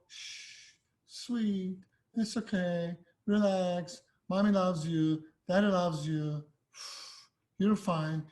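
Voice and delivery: mock coddling of a scared dog, opening on a hushed shush; lightly acted soothing pet parent; soothing softness. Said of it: "These softnesses".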